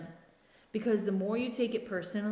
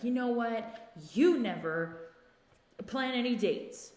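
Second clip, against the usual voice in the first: higher, slow mock complaint; frustrated accusation; 3 semitones higher, 4 dB louder, slower than usual. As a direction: act out a frustrated partner lashing out, drawing out the words. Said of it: "they're frustrated".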